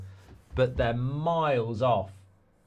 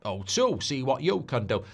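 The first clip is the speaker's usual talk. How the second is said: lightly voiced advert impression; Sean Bean. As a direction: toss off the slogan in the actor's voice. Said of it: "Sean Bean does the O two advert".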